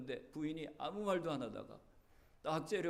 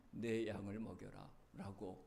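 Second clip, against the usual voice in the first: solemn slow command; 8 semitones lower, 7 dB quieter, slower than usual. Retold or imitated. Jesus's command quoted again.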